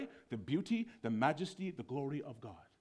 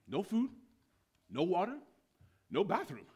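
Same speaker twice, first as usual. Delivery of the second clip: sharply rising list, each item set apart; stern, raised pitch; irate commandant; 5 semitones higher than usual. Acted. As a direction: hand down each deprivation like a sentence. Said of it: "the commandant is irate".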